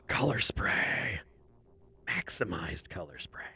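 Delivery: breathless whispered idea; awed whisper. Retold or imitated. Artist recalling her idea at work, awed whisper. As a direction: whisper it like a sudden revelation.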